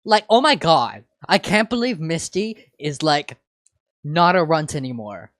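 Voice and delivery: put-on high loud valley girl gush; valley girl squeal. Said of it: "One of the voices squealed".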